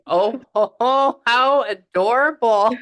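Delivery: slow, high, loud gush; adoring coo. Real, not acted. Reader spotting something cute, cooing with delight. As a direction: laugh and coo at something adorable.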